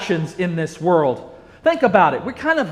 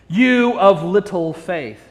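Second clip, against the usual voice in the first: gentle rebuke; slower than usual. Acted. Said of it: "saying to him".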